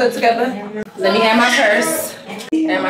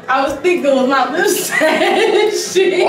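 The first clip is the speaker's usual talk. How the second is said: slow, laughing recap; laughing retelling; 5 semitones higher, slower than usual. Real, not acted. Girlfriend laughing about the prank, slow. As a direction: laugh through it.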